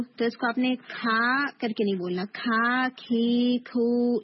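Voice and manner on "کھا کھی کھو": کھا، کھی، کھو with a breathy h after the ک; aspirated ک in کھا کھی کھو; wrong aspirated kaaf. Shown as a demonstration. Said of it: "یوں نہیں".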